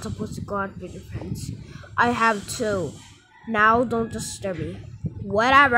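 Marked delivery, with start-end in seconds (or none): 5.2-5.8 dismissive. Acted. Sulky kid brushes off mom.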